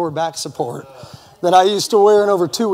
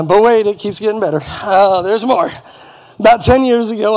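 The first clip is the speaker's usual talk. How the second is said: louder, higher TV-pitchman hype; infomercial pitch; 4 semitones higher, 7 dB louder than usual. Pretend. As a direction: sell it like a late-night ad. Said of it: "start sounding like an infomercial".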